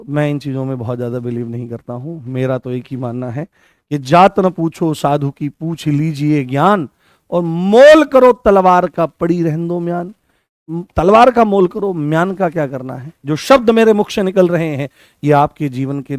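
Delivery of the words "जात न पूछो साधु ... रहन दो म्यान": recited couplet. Shown as a demonstration. Teacher recites a doha.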